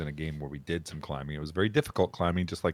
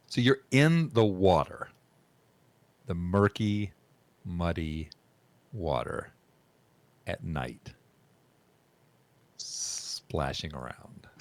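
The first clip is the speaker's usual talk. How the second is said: scene narration; slower than usual. Acted. GM scene setting.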